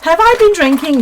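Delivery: loose, slightly slurred speech; tipsy-sounding. Real, not acted. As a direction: talk as if a bit tipsy. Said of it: "I sound like a bit drunk".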